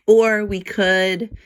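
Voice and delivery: slow, drawn out, fading away; hesitant repeated trailing voice. Acted. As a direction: let the words trail off, lost in thought. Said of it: "his voice trailed off".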